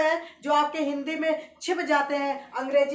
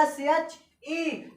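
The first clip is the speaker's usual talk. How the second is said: very slow spelling; much slower than usual. Shown as a demonstration. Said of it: "मैंने क्या लिखा है?".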